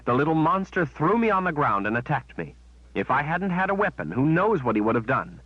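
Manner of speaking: rising outrage at the witch; indignant anger. Acted. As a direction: throw the betrayal back at her. Kalen confronts Shota in anger.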